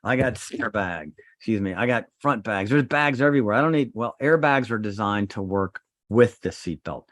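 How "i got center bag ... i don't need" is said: hammed-up voice of people who skip seatbelts; mocking know-it-all driver. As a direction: parrot the excuse with a scoffing edge. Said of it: "People say".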